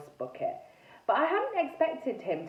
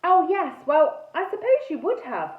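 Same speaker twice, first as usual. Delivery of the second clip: higher-pitched, understanding reply; sympathetic; 6 semitones higher, 6 dB louder than usual. A narrator's reading. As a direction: sympathise with the poor ghost. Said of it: "I said sympathetically".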